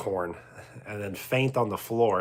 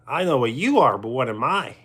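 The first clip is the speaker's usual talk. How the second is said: Pee Wee catchphrase; 4 dB louder, faster than usual. Acted.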